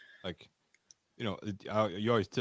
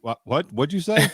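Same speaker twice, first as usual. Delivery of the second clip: puzzled asking again, louder; not catching the word; confused Australian; 5 semitones higher, 4 dB louder than usual. Retold or imitated.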